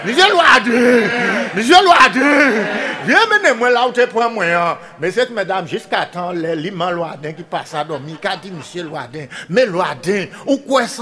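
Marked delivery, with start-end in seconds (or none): 0.1-4.8 pig crying out. Acted. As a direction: wail the name like a squealing pig. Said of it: "les cochons qu'a crié".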